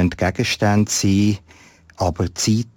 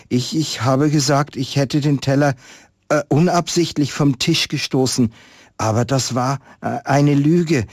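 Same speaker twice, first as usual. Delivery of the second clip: sad whisper; 6 semitones higher than usual. Acted. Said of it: "sehr traurig und flüsterte".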